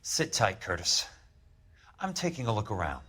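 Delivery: low-key, soft command; quiet menace. Acted. Ordering Curtis to stay put, quietly menacing. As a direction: keep the order soft and in control. Controlled order during break-in.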